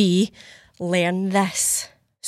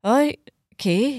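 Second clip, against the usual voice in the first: unimpressed surprise; 7 semitones higher than usual. Retold or imitated. Host reacting to Stacey about the drawing. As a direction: fake being impressed. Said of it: "And I'm like that".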